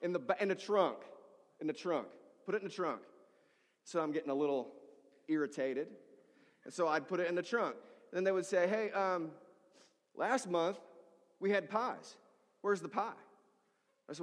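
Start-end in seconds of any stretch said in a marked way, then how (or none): 0.0-3.0 imitated impatient, insistent correction. Client correcting where food goes, with a demanding tone. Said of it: "There was a tone". 8.7-13.1 higher-pitched demanding complaint; entitled. Retold or imitated. Client asking the pastor about missing pies, entitled. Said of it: "when they acted entitled to my help".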